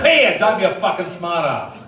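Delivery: mock exasperated copper snapping back; irritated cop. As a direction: imitate a cop losing patience. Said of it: "screaming in my face going".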